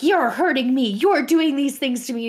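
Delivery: imitated outraged complainer; mock victim. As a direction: play up a false accusation, punching the words. Acting woman faking being harassed.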